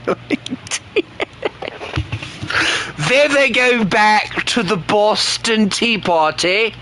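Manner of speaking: high, slow teasing; sing-song taunt at the British; mock high taunt. Streamer taunting British viewers in a high mocking voice.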